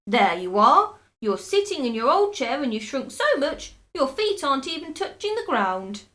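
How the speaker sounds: loud triumphant shout. A narrator's reading. Husband shouts in triumph at his shrinking wife. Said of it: "pointed at her and shouted".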